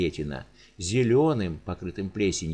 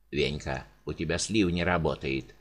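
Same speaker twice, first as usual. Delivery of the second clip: gurgling voice; 5 semitones lower than usual. Acted. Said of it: "булькающим голосом сообщил он".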